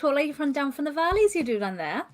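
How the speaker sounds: lilting Welsh valleys voice; Welsh accent. Shown as a demonstration. Player shows off her Welsh to the group, lilting Welsh accent. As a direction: put on a singsong Welsh accent. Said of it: "I actually can do a Welsh voice".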